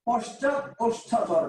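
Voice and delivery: পশ্চাৎ ওষ্ঠাধর drawn out slowly; slow dictation. Shown as a demonstration. Teacher repeating the term for students, slow dictation. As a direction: say the term at half speed for learners.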